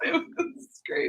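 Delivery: breathy whispered aside. Real, not acted. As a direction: drop to a whisper. Dreamy aside.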